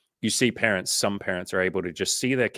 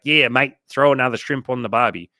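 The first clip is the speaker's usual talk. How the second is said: hammed-up Australian accent, louder; 5 semitones higher, 7 dB louder than usual. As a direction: ocker Aussie ad pitch in an Australian accent. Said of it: "some ad in the seventies or eighties was like".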